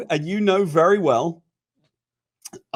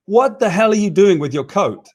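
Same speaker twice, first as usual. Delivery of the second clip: sharp, louder angry demand; snapping at a man over his coat; flipped out; 6 semitones higher, 4 dB louder than usual. Retold or imitated. Exec yelling at the business guy over his coat, angry. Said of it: "this guy flipped out at him".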